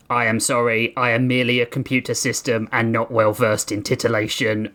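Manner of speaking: chirpy computer voice, evenly paced; cheerful AI, bright and mechanical; cheerful robot voice. Acted. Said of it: "a robotic voice chimed cheerily".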